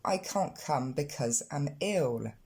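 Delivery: slow, careful model sentence. Shown as a demonstration. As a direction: read it out slowly for learners. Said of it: "on va retrouver la même chose en anglais".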